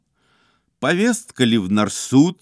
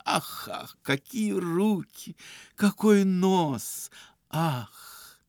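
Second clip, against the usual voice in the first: gushing flatterer; 4 semitones higher than usual. Acted. Iznurenkov gushing compliments at girl.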